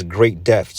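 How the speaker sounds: "great death" slow, with weight on "great"; stress on "great". Real, not acted. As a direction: draw out "great death" emphatically. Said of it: "don't put emphasis on words".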